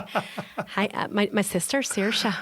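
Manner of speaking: playful, lightly put-on Irish accent; little Irish voice, on the edge of laughing. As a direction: imitate an Irish film character. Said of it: "they have these great Irish accents".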